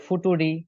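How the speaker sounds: "ফুটুরি" sounded out letter by letter; mock-literal "ফুটুরি" with hard t; deliberate misreading. Shown as a demonstration. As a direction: misread future as foo-too-ree, "ফুটুরি". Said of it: "শুনতে funny লাগতেছে".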